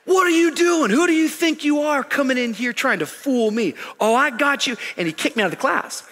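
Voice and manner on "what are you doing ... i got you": angry teacher shout. Retold or imitated. Angry teacher voiced in story.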